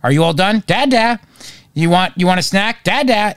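a hint of a little girl calling; imitating toddler. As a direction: toddler answering mom at lunch, lightly voiced. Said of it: "And she'll go".

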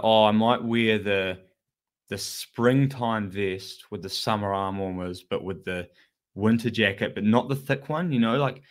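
slow, unsure and picky; fussy dithering. Retold or imitated. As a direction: dither over every layer. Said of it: "And you're like".

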